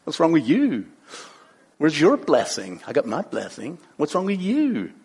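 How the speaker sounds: smug, taunting questions; uppity. Acted. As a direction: needle a rival as if you outrank her. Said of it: "she gets a little uppity".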